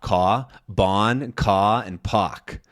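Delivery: "Ka, bon, ka, and pak" without R, vowel sliding up. Shown as a demonstration. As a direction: drop each R in "Ka, bon, ka, and pak". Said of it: "It, it goes up".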